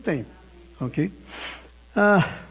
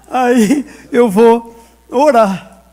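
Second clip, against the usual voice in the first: slow emphatic declaration; 3 semitones higher, 8 dB louder, much slower than usual. Real, not acted. Pastor anuncia decisão ao púlpito.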